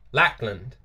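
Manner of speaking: "Lackland" with the final D left off; dropped D. Shown as a demonstration. Showing viewers how people say it, dropped D in "Lackland". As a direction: say "Lackland" as Lack-lun, swallowing the D. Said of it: "don't ever really pronounce the D".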